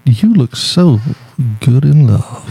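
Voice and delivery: sultry, drawn-out crooning; sexy voice. Pretend. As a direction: purr it like a smooth radio crooner. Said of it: "try that ... in the sexy voice".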